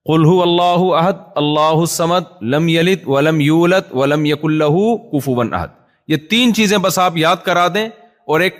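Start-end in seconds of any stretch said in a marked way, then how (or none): 0.1-5.7 slow, measured recitation of the verses; demonstrating a short surah slowly for a beginner; Quran recitation. Shown as a demonstration. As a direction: recite it slowly and carefully, like teaching a new learner. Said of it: "کوئی چھوٹی سی صورت یاد کرا دیں".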